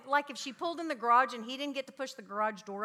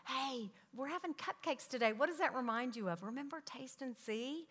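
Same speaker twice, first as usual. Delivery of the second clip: put-on soft whisper to a child; 6 dB quieter than usual. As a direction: lean in and whisper it to your son. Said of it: "you whisper in your son's ear".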